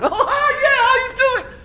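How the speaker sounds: high, bright friendly phone greeting; sweet phone voice. Acted. Angry person suddenly answering the phone, sweet and high. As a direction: switch instantly to a cheery caller voice.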